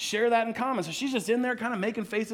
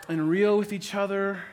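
normal talking voice

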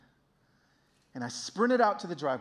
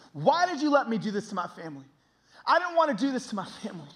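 raised, protesting cry re-enacted; angry at God; 7 semitones higher, 6 dB louder than usual. Man shaking his fist at God, angrily protesting. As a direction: demand an answer, anguished and higher. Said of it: "I was so angry at God".

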